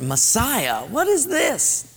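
baffled, slowly asking; puzzled surprise. Retold or imitated. Daniel puzzled by the vision.

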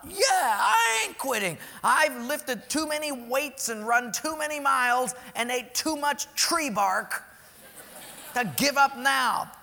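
loud, high, fired-up vow; determined, not quitting. Retold or imitated. Runner telling himself he won't quit, loud and fired up. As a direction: refuse to quit, push it out loud. Preacher voicing his own resolve.

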